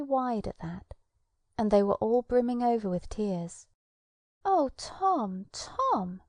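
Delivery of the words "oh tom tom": mournful. Acted. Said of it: "she said very mournfully".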